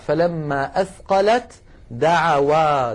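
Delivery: slow "فلما أثقلت دعوا" with ت merged into د; إدغام التاء في الدال; slow recitation. Shown as a demonstration. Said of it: "المثال الأخير قوله تعالى".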